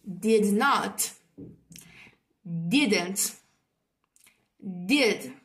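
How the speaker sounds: isolated words with long pauses for repetition; repeat-after-me modelling. Shown as a demonstration. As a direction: model each form on its own, leaving room to echo. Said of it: "repeat after me".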